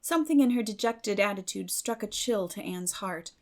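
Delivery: ordinary delivery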